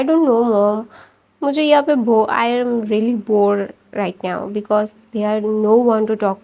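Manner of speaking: slow, drawn-out bored sighing speech; bored and sad. Acted. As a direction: drag each word out like a bored, lonely son. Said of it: "why you looking so sad". (بیزار اور اداس، بہت آہستہ بولنا)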